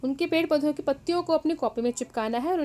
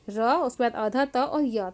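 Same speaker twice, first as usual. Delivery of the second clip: spelling it out; 2 semitones lower than usual. Shown as a demonstration. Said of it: "नाम में नीचे".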